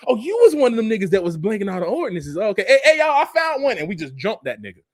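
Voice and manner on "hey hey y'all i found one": raised, higher call to the crowd. Acted. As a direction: shout it out like you found someone. Acted mob calling out.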